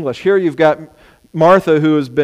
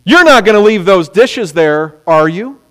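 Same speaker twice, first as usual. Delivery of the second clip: expecting no; 3 semitones higher, 5 dB louder than usual. Shown as a demonstration. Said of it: "the same tone of voice".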